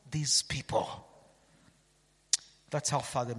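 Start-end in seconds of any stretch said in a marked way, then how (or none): 0.1-1.1 whispered close; preacher whispering God's words; dramatic whisper. Acted. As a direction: drop to a breath for these people. God's plea ends hushed.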